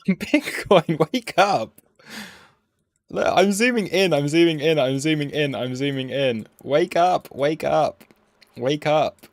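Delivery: loud impatient chant, starting high and easing down; calling out impatiently. Real, not acted. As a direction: rouse a sleeper with urgent repeats. Calling at Bitcoin to wake up.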